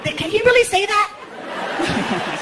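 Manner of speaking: high, slow, shocked voice; scandalised audience member. Retold or imitated. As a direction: gasp it like a prude. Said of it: "Some are like".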